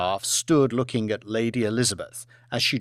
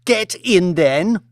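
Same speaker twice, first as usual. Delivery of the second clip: stern order; 5 semitones higher, 6 dB louder, slower than usual. Acted. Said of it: "ordered Lady Elizabeth".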